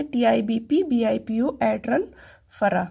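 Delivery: quick and joined up; fast run-through. Shown as a demonstration. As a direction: run the letters together quickly. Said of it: "fast कैसे बोलेंगे?". (तेज़ी से जोड़कर)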